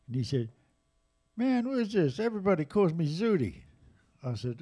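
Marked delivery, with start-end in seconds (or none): 1.4-3.6 put-on higher, louder, put-out voice of the old drummer; lightly voiced old jazz drummer; imitating Zutty. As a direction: give Zutty a gruff, amused edge. Voicing Zutty on the phone.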